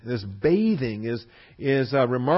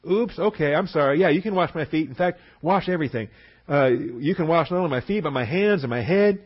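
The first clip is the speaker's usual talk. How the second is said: overeager apology; 4 semitones higher, 4 dB louder than usual. Retold or imitated. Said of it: "he's gonna go overboard the other direction".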